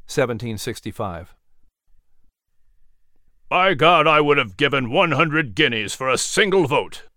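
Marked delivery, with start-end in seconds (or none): 3.5-7.1 angry exclamation. A narrator's reading. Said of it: "Peyton Randolph exclaimed".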